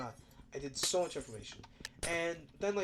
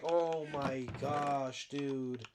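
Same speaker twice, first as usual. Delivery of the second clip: exasperated; 3 semitones lower, much slower than usual. Retold or imitated. Own reaction in the retold argument.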